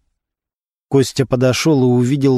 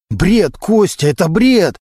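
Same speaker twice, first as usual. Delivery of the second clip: indignant; 6 semitones higher, slower than usual. A narrator's reading. Suspect rejects accusation.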